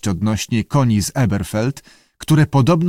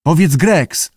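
lightly raised prompt to a pupil; keeper prompting; 5 semitones higher, 4 dB louder, slower than usual. A narrator's reading. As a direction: coax a word out, testing. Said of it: "spróbował".

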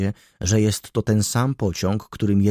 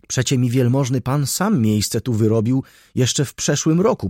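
higher, louder pleading; excited protest; 3 semitones higher, 4 dB louder than usual. Acted. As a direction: insist eagerly he is the brother. Trackman protests, explains. (wyższe, głośne, żarliwe tłumaczenie)

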